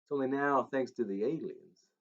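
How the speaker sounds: rock-and-roll singer's Tennessee twang. Acted. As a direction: spin the alien tale as a rock-and-roll legend. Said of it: "his Tennessee twang".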